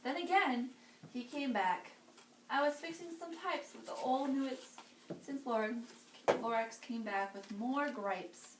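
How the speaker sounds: put-on lively read-aloud for children; storybook reading. A narrator's reading. Reading to kids, lively storybook voice. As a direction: read it like bedtime story time.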